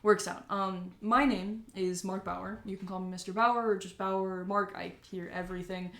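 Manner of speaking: lightly voiced businessman; welcoming and chatty; friendly mayor voice. Mayor introduces himself.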